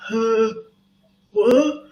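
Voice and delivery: sudden loud high "what?"; confused huh what. Shown as a demonstration. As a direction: blurt it out, caught off guard. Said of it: "So instead of like".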